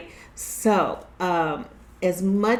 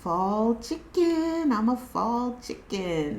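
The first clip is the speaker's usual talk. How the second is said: proud reveal; 3 semitones higher, 5 dB quieter, slower than usual. Real, not acted. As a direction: savor each word like a punchline. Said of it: "This is what I had made".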